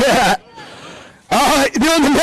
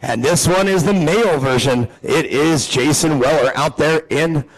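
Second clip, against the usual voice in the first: lower, measured driver introductions; race announcer; 6 semitones lower than usual. Real, not acted. Announcer introducing the drivers row by row, low announcer delivery. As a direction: present the starting grid over the PA.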